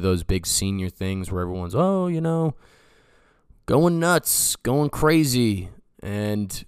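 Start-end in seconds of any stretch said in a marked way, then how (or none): 1.7-5.7 high excited party-bro voice; hyped up, going wild; party crowd hype. Retold or imitated. Imitating partying seniors shouting.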